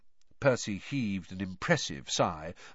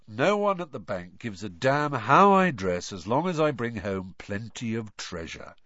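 patient. Acted. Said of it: "said Bill patiently".

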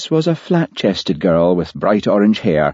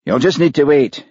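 cross; 8 semitones higher than usual. A narrator's reading. Producer, about to eat, crossly fobs off visitors. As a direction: snap it out, annoyed at the interruption. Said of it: "he said crossly".

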